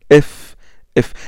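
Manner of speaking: F made thin and light; a light, thinned F. Shown as a demonstration. Teacher demonstrating the thin Arabic fa. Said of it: "Le fa est prononcé aminci".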